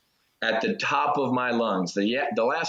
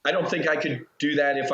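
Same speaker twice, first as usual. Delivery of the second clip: laughing; 4 semitones higher than usual. Real, not acted.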